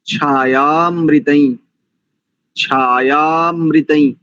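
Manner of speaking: छायामृतैः said slowly as one joined word, chhaa-yaa-mri-taih; छायामृतैः, one flowing word. Shown as a demonstration. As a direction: say छायामृतैः in one breath, no break after छाया. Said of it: "अलग-अलग नहीं बोलेंगे".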